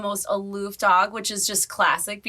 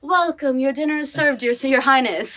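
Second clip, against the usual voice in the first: lightly put-on British butler. Shown as a demonstration. Serving the dog dinner like royalty, light British voice. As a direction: announce dinner with a hint of British. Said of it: "like, a British voice".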